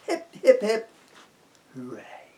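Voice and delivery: high loud cheer; rally the crowd with a cheer. Acted. Elves cheer Santa off, high and loud.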